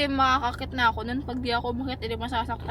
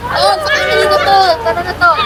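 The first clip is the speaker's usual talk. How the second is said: loud, higher call; 4 semitones higher, 14 dB louder than usual. Real, not acted. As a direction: call them over to the car. Calling friend to get in.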